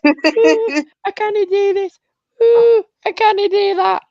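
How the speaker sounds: high, whining mock complaint; whiny voice. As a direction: whine it like a crybaby. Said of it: "do your whiny voice".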